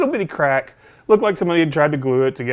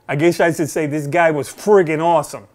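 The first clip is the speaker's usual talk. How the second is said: hammed-up New York accent, a bit louder; bad New York accent; 3 semitones higher, 5 dB louder than usual. Fan praising the store rep, bad mock New York accent. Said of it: "that was a horrible New York accent".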